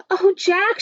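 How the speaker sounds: high-pitched delighted mother; happy exclamation. Acted. Mother greeting Jack with the harp, happy exclamation. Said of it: "she said happily".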